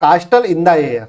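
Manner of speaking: "castle in the air" stretched out word by word; slow, deliberate announcement; slow headword. Shown as a demonstration. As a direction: dictate the idiom slowly. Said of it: "next".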